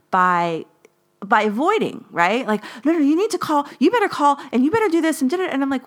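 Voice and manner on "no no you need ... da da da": higher, pushy commanding mom; bossy mom. Retold or imitated. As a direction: imitate mom barking orders. Mom ordering her to call.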